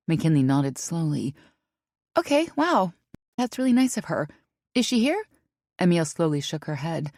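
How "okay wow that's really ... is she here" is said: put-on surprised young woman. A narrator's reading. McKinley surprised.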